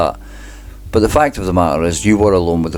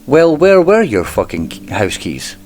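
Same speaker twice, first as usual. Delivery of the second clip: lightly mimicked lawyer, pitched higher at the start; Donald Finley's voice; 4 semitones higher than usual. Narrator imagines the lawyer grilling Shane, mock lawyer voice. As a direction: half-jokingly imitate the lawyer's question. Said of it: "I'd love to have heard that in Donald Finley's voice".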